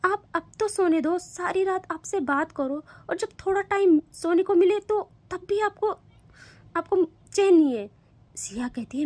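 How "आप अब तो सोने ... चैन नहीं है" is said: sleepy grumbling. Acted. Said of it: "नींद भरी आवाज़ में कहती है".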